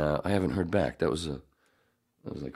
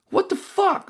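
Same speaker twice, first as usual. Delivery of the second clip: much higher, stunned what-the-fuck; stunned disbelief; 4 dB louder, slower than usual. Retold or imitated. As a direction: react like a baffled film director. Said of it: "the director in the middle going".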